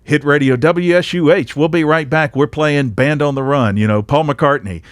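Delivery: a lightly voiced hit-radio announcer. Shown as a demonstration. Former DJ showing the polished radio sound stations wanted, lightly voiced DJ patter. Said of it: "they wanted you to have this sound like".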